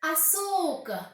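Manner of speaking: "Açúcar" lento, com o ÇÚ bem esticado; ênfase em ÇÚ. Shown as a demonstration. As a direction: alongue a sílaba do meio de "Açúcar". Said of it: "Perceba que". (a-ÇÚÚÚ-car, devagar)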